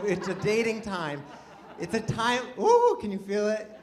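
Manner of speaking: normal talking voice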